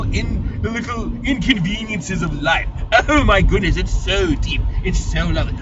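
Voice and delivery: mocking festival critics with a lightly put-on gushing snob voice; pretentious snob. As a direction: swoon over the pauses like a snob at a festival. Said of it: "snobby people were there going".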